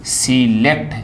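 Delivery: सिलेक्ट in two parts, सि then लेक्ट; correct pronunciation. Shown as a demonstration. Teacher confirms the right sound, correct pronunciation. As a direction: separate a clear सि from लेक्ट in सिलेक्ट. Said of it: "ये इसका सही phone है उच्चारण".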